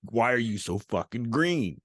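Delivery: slow imitation of an insistent cop. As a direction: stretch the question out, lightly playing the cop. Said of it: "this cop pulls me over".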